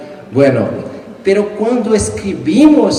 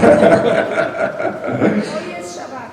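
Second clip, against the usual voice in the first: high laugh; 11 semitones higher than usual. Real, not acted. Author laughs after his money joke. Joking about prize money.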